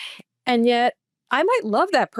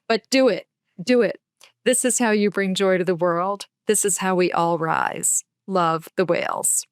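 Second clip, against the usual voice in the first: guided meditation reading. Acted. Reading her loved meditation to the podcast host, in a guided meditation voice. Reads heart-call meditation aloud.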